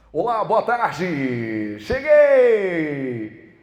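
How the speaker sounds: loud, drawn-out announcer greeting; mock radio host. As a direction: boom it like a nervous new DJ. (locutor de rádio exagerado e alto)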